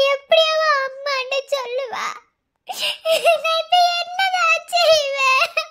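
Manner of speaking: slow, drawn-out sobbing lament; a mother sobbing for her lost child, drawn out; sobbing, slow wail. Acted. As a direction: wail slowly for the lost daughter. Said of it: "please, அழுகாதீங்க".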